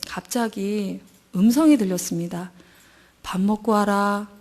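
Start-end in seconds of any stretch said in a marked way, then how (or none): 3.2-4.3 slow, lower, gentle fatherly voice; tender slow fatherly command. Retold or imitated. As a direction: speak like a kind father. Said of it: "다정다감한 친정 아버지 같은 목소리".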